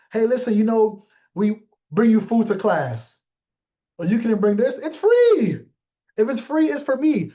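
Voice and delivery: hammed-up delight over free food; mock greedy excitement. Mock freeloader gushing to the class about free food, excited.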